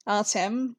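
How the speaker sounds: "Artem" said as AR-tem, stress on the first part; name pronunciation. Shown as a demonstration. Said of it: "I'm gonna pronounce it Artem now".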